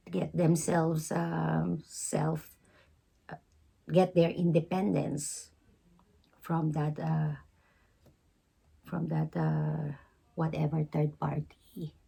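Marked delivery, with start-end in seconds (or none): 6.4-11.9 hoarse, fading voice; losing voice. Real, not acted. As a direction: voice giving out to a whisper. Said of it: "I'm losing my voice".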